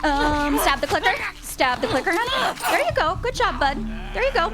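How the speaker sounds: loud, rushed cheering on; excited urging. Real, not acted. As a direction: urge her on in a frantic rush. Urging character to stab clicker.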